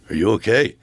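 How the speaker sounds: retelling the first try, the words "Are you okay?" asked out loud; first blurted version. Retold or imitated. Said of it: "no, first he went like this".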